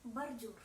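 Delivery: "bordure" as Russian "bardiour", unstressed O sounding A; O pronounced as A. Shown as a demonstration. Teacher demonstrating unstressed O in bordure, pronounced as A. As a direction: say "bordure" the Russian way, bar-diour. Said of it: "elle se prononce plutôt comme A".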